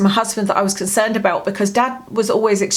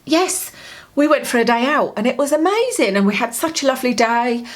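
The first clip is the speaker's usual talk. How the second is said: delighted; 4 semitones higher than usual. Retold or imitated. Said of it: "he sounded absolutely delighted".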